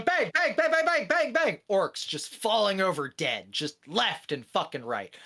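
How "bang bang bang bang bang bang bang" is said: high, rapid-fire mock gunshots; mock yelling. Guardsmen with empty guns fire at orcs, mock yelling. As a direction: imitate soldiers yelling out their shots. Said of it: "they're yelling bang".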